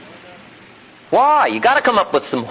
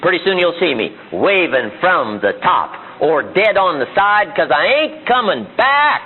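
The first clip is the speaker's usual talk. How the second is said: higher-pitched, defiant vow, slowing to drawn-out words; defiant climber; 3 semitones higher than usual. Acted. Man vowing to climb his mountain, defiant. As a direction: dig in and stretch out the last words. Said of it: "The man says".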